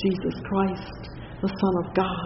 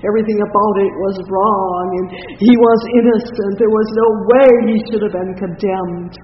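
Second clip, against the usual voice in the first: impassioned preaching; 2 semitones higher, 9 dB louder, faster than usual. Acted. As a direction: thunder out the injustice. Preaching about the unjust trial.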